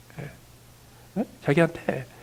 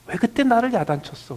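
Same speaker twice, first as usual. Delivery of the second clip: put-on higher, louder aggrieved child; imitating son's complaint; 8 semitones higher, 7 dB louder than usual. Son protests to his father over scolding, higher and louder. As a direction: protest loudly like a hurt son. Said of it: "라는 말을 드리려면요".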